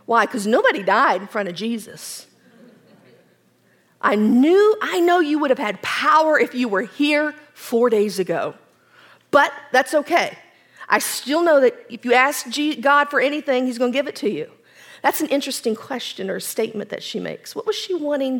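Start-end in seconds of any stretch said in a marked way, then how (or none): 4.0-14.5 eager Martha. Acted. Martha speaks to Jesus.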